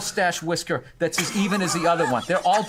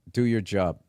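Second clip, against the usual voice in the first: Boston accent, job as jahb; 10 semitones lower than usual. Shown as a demonstration. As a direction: say it like a Boston local. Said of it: "try saying".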